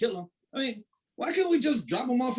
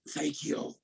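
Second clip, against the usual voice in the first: whisper; 8 semitones lower, 6 dB quieter than usual. Acted. Released, gasping whisper.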